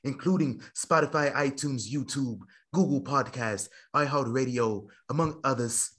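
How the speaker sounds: lightly affected formal announcer; grand show plugs. Acted. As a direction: read the plugs with measured ceremony, pausing between phrases. Host reads show plugs in put-on formal style.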